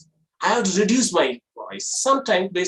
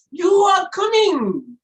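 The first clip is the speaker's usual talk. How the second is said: very high, drawn-out loud surprise; 13 semitones higher, 5 dB louder, slower than usual. Shown as a demonstration. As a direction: exclaim slowly in high-pitched astonishment. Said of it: "Next one is surprise".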